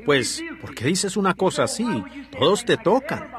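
reproachful rebuke. Retold or imitated. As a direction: chide him as if the question were silly. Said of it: "como si lo reprendiera".

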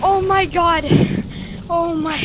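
overwhelmed, nervous murmuring; real overwhelmed nerves; shaking, near tears. Real, not acted. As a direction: murmur to yourself, about to cry. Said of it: "I'm shaking. I'm gonna cry".

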